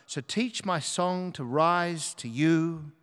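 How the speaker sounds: measured reading with "rise to you" drawn out; slow recitation. Shown as a demonstration. Preacher previews the song to be sung, slow recitation. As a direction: recite the lyric slowly and deliberately.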